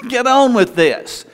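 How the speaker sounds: slow, high, impatient sergeant's order; mock commander's push; first sergeant. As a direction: order the troops along like a sergeant. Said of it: "he's talking like a first sergeant".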